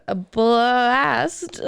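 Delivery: bleating goat impression. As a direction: bleat the word blast like a goat. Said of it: "That was my bad impersonation of a goat".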